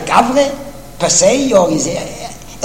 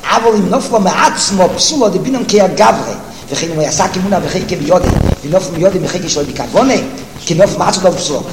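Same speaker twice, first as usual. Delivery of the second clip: racing through the Hebrew source text; fast singsong yeshiva reading; rapid text reading; much faster than usual. Acted. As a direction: rattle off the quote quickly, like a study partner.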